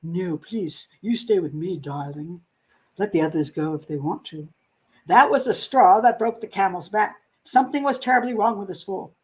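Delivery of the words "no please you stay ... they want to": pleading. Retold or imitated.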